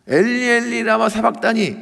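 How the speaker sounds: loud, high cry of anguish to God; re-enacted desperate plea; imitated crying out. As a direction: cry it out loudly, voice lifted high. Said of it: "예수님이 한 그 부르짖음".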